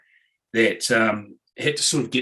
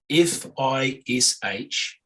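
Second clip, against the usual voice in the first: slow Kiwi spelling-out, letter by letter; careful, drawn-out Kiwi letters; New Zealand accent; much slower than usual. Shown as a demonstration. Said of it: "perform with a New Zealand accent".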